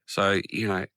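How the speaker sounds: hoarse with a cold; croaky voice, a little rough. Real, not acted. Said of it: "I've got a croaky voice this morning".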